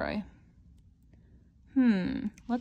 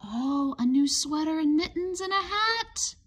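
delighted; 5 semitones higher than usual. Acted. Opening the blue box.

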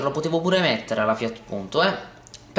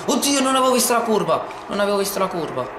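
startled laugh; 7 semitones higher, faster than usual. Real, not acted. Missed a curve while racing.

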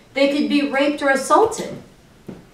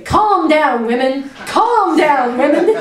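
mock condescending "calm down" with laughter, raised; mocking catcalling guys; 4 semitones higher, 3 dB louder, slower than usual. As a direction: sneer it back like a patronizing man, half laughing. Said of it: "The guys who come and say".

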